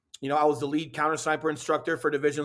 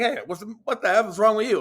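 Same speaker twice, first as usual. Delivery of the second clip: drill instructor yell; 5 semitones higher than usual. Retold or imitated. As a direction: bark it like a drill instructor at a nervous recruit. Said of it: "He looks up to me like".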